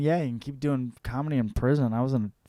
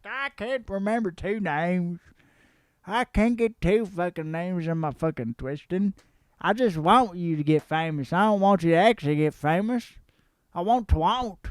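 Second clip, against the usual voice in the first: higher-pitched mocking voice; mock complainer; 4 semitones higher than usual. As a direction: lightly whine it like a petty hater. Voices a mocked person's complaint.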